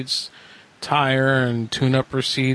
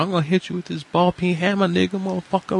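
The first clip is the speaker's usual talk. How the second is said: fast, higher mock threat; imitating the robber; 4 semitones higher, faster than usual. Retelling the robber's hammer threat, higher and fast. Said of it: "like that".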